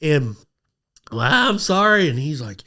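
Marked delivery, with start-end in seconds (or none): 1.1-2.1 high mock-tearful apology; shaken apology. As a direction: re-enact a shaken, pleading sorry. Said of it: "I am shaking".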